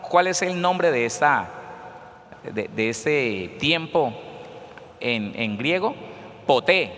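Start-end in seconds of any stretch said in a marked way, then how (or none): 6.5-6.9 Poté with the stress on the final É; Poté pronounced po-TÉ, end-stressed. Shown as a demonstration. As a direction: say Poté, leaning on the last syllable. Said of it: "con acento en la E".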